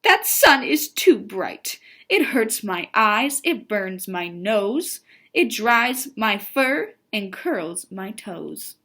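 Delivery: emphatic list of grievances, starting loud; mildly exasperated read-aloud rant; storybook complaint. Acted. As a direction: open strongly, then draw out each complaint. Miz Mole rants about the sun.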